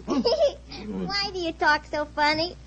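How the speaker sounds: laughing. Acted. Giggling child asks.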